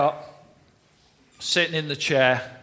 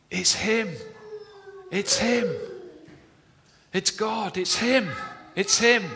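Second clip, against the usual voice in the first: overwhelmed exclamation; 7 semitones higher than usual. Retold or imitated. Burak overwhelmed, crying out.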